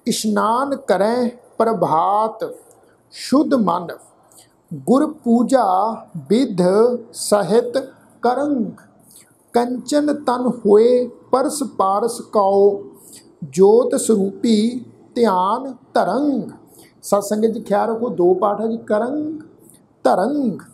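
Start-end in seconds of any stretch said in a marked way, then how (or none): 0.1-16.5 slow, measured chanting recitation of gurbani; ਹੌਲੀ ਸ਼ਰਧਾ ਭਰਿਆ ਪਾਠ; scripture recitation. Acted. 18.8-20.6 ਕਰੰਗ and ਧਰੰਗ with a nasal ng; ਕਰੰਗ ਧਰੰਗ ਨਾਸਿਕ ਉਚਾਰਨ; nasal ending. Shown as a demonstration. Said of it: "ਟਿੱਪੀ ਦੀ ਮਾਤਰਾ ਦਾ ਨਾਸਿਕ ਉਚਾਰਨ".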